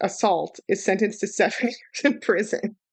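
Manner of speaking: words spoken through laughter. Speaker tells a grim story to a listener, laughing while speaking. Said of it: "I'm laughing because this is so fucking horrible".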